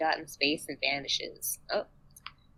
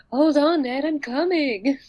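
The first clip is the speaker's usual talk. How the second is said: loud, high call to someone ahead; 8 semitones higher, 6 dB louder than usual. Acted. Player calling after Ned, loud acted shout. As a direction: call after a companion, stretching the end.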